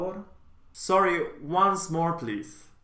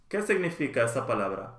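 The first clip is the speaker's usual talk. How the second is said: natural speed; much faster than usual. Shown as a demonstration. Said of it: "teacher models phrase twice".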